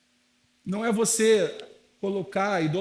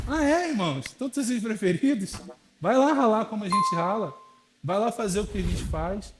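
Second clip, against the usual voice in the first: sarcastic retort; 2 semitones higher than usual. Retold or imitated. Pastor answers envious friends with a mocking, challenging retort. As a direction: throw it back at them.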